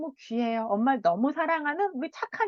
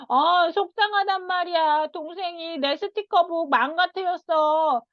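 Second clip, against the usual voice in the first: higher, a light hint of a complaining child; 6 semitones higher than usual. Shown as a demonstration. Child telling mom his brother broke things, lightly whiny. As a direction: tattle like a little kid. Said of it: "하고".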